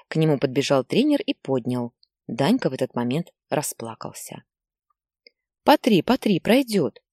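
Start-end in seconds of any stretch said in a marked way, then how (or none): 5.6-7.0 higher, lightly voiced coach comforting; a hint of a coach calming a boy; soothing coach. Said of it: "говорил тренер". (тренер мягко и высоко утешает мальчика)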